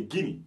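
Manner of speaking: "Guinea" said GHI-nee, no A; Guinea, silent A. Shown as a demonstration. Teacher explains the vanished A, saying GHI-nee. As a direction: leave the A out of "Guinea". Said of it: "le A là n'existait pas".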